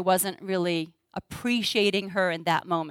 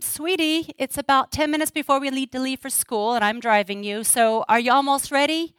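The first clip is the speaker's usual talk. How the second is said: lightly higher, gently coaxing mom; sweet mom voice; 4 semitones higher than usual. Retold or imitated. Mother nudging her daughter to get ready for school, sweetly. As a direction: coax your daughter along sweetly. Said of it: "this is how it would look in my house".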